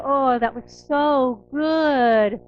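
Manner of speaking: satisfied sigh. Retold or imitated. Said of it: "we go".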